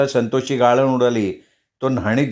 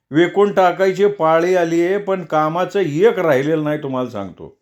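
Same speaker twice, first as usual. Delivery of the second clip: aggrieved neighbour voiced higher; upset old villager; 5 semitones higher than usual. Old villager complaining to Aba, higher.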